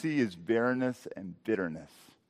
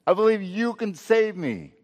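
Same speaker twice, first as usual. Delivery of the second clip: urgent cry of trust, pitched high; earnest plea to God; 7 semitones higher, 4 dB louder than usual. Acted. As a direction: plead upward with conviction. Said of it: "It's saying".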